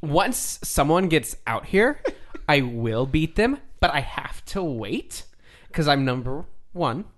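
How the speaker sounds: swagger through a promo while cracking up; wrestling promo. Acted. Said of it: "This is me cutting a promo".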